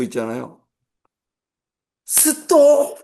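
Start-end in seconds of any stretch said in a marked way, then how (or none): 2.0-3.0 sudden high yelled "스톱!"; husband yelling stop at wife during driving lesson; shouted stop. Retold or imitated. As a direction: bark "스톱!" at a struggling driver, high and loud. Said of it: "막 이랬어요".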